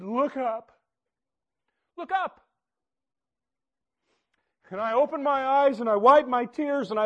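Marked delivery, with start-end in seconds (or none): 2.0-2.4 the still small voice urging again, higher; gentle repeated call. Retold or imitated. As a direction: Look up lifted higher on the repeat. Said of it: "A still small voice said".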